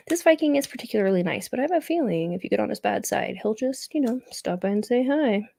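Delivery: talking while crunching chips. Real, not acted. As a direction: mouth full of chips. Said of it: "sorry for my crunching".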